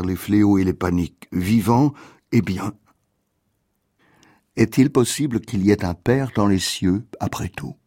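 understated recital of a poem; poem reading. Acted. Reads a poem aloud.

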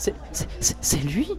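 whispered, frightened stammer. Acted. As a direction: stumble over the words in fright. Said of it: "elle en bégayait".

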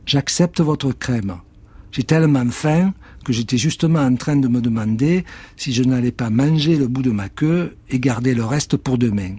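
lent puis bavard, un peu plus aigu; chat affamé. Acted. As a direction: chat gourmand qui accepte. Cat accepts. (le chat répond à la sorcière, lent)

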